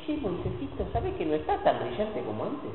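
a hint of a friend breaking bad news gently to Moses; confiding aside. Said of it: "Pero un día dice".

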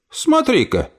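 put-on high, delighted old aunt; pleased. Aunt spots Emily arriving, pleased and high. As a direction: brighten at the sight. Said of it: "обрадовалась тётушка Тильде".

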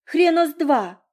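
put-on girl defying her parents aloud; defiant retort. A narrator's reading. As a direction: fling it at them. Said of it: "вслух добавила".

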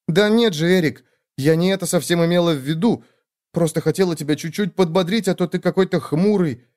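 a caring sister who won't take no; bossy little sister. Acted. Sister protesting, reassuring.

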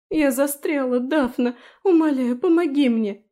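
high, loud tearful plea for help; desperate pleading. Acted. Felicia trapped in the rock begs Daphne, panicked plea.

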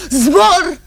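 high, loud burst of joy; joyful cry. Acted. Woman dreaming of freedom, crying out. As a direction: fling the word upward.

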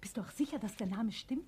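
anxious whispered question. Acted. Wife whispers her fear to her husband. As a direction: breathe it under the voice.

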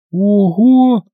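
high displeased oho; unpleasantly surprised. A narrator's reading. Olga hearing the maid saved thirty thousand, sour surprise. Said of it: "неприятно удивилась она".

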